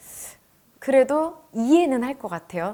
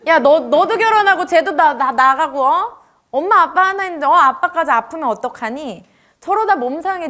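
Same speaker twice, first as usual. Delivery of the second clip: loud, higher nagging mother; scolding mom; 4 semitones higher, 5 dB louder than usual. Retold or imitated. Mom yelling at her kids about dad. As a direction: nag the kids about dad's drinking.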